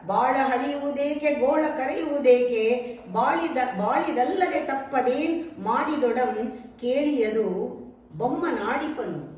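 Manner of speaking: measured, declaimed poem reading; verse recitation. Acted. Teacher reciting a Mankutimma verse for listeners, verse recitation.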